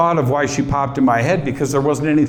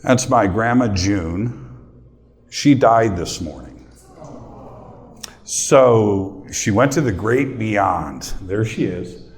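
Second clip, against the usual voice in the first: choked up; 3 semitones lower, slower than usual. Real, not acted. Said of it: "I'm gonna get choked up".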